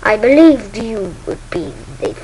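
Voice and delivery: very slow, measured villain voice; deliberate words from a dark master; Darth Vader. Acted. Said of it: "says Vader".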